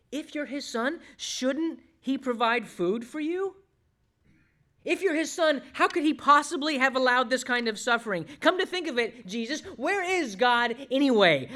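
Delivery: high, incredulous, pressing questions; devil's doubting challenge. Acted. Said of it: "And the implication".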